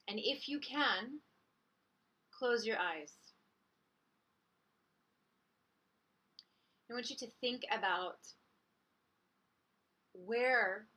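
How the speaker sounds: calm guiding voice with long pauses; unhurried meditation guide, softening into the pauses; guided meditation. Acted. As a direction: lead listeners gently inward, leaving space between phrases.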